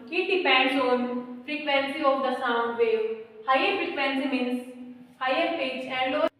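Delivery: slow, deliberate dictation for notes. Real, not acted. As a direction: read it out slowly so they can write. Dictating definition to students. (धीमे-धीमे लिखवाना)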